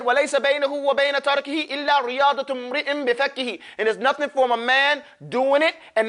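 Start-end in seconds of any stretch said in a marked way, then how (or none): 0.0-3.6 quick chanted recitation of a verse; recited verse. Retold or imitated. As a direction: rattle off the memorised line. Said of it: "like Al-Jazari said".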